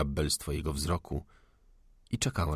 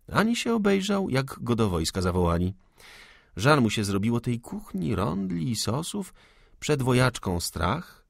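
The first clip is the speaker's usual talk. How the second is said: higher, lively lady spinning a tale; storytelling young woman; 5 semitones higher than usual. Acted. Salomea tells the gunman a cheerful anecdote. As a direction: tell it brightly to calm him.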